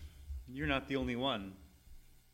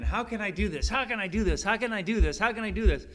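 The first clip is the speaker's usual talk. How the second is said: rising, louder, higher pleading; desperate wrestling; 6 semitones higher, 7 dB louder than usual. Retold or imitated. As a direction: repeat it as if struggling in despair. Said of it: "when you're wrestling again and again".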